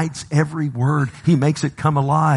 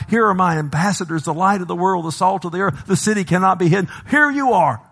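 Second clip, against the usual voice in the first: higher-pitched, insistent build to a ringing finish; impassioned preaching as Jesus; 4 semitones higher than usual. Acted. Preacher speaks as Jesus presenting his laborers, impassioned and building. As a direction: present them with mounting fervor.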